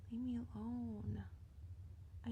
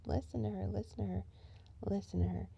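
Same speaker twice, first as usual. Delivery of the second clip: booming sermon reading; scripture reading; faster than usual. Acted. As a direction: proclaim each listen like a preacher. Voices Jesus quoting scripture.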